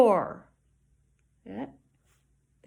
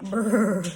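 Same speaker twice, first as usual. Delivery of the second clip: cold brr with rolled lips; a chilly lip trill brr; shivering brr; 3 dB louder than usual. Shown as a demonstration. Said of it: "'cause brr, she's cold".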